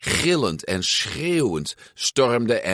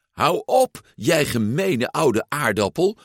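much higher squeaky little voice; 6 semitones higher than usual. Acted. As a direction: squeak it out like a porcelain shepherdess. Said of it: "met een hoog piepstemmetje".

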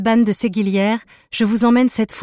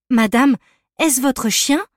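insisting; 4 semitones higher, slower than usual. Acted. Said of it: "insista-t-elle".

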